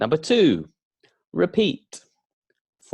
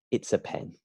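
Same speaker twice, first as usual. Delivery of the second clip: soft learner answer; 2 semitones lower, 6 dB quieter, faster than usual. Shown as a demonstration.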